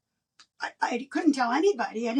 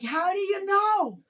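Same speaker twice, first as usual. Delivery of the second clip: high, startled question; surprised question; 8 semitones higher than usual. Retold or imitated. Woman to her Christian friend, high startled. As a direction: caught off guard by her friend. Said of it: "I'm like".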